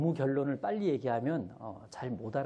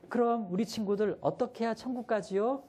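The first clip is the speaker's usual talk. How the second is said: much higher coaxing teacher voice; higher teacher voice to little kids; teacher asking kids; 10 semitones higher than usual. Retold or imitated. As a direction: ask sweetly like a kindergarten teacher. Teacher asks kindergarteners.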